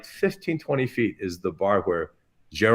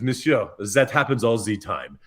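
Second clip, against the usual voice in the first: French maitre d'. Retold or imitated. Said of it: "the maitre d'".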